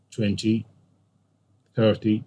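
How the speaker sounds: "twenty, thirty" with the first syllable of each stressed. Shown as a demonstration. Teacher shows class how ten numbers sound, "twenty, thirty" stressed on first syllables. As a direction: stress the start of "twenty" and of "thirty", pausing between them. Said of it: "stress the first syllable".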